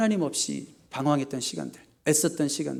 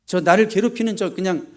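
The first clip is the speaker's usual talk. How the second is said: acted anger; 3 semitones higher, 5 dB louder than usual. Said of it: "원수에 대한 분노".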